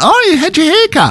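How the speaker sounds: squeaky high sing-song greeting; high mock greeting. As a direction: chirp it up high, playful. Retelling greeting on the street.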